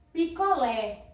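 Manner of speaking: picolé with stress on an open LÉ; open final vowel. Shown as a demonstration. Teacher showing pupils the acute accent, open stressed LÉ in picolé. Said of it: "Ela vai ter o som aberto".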